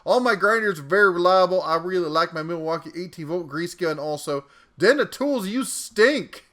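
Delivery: Southern cat giving his verdict; Southern accent. Acted. Cat commenter reviews his tools and insults the bear, Southern accent. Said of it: "I'm using a Southern accent".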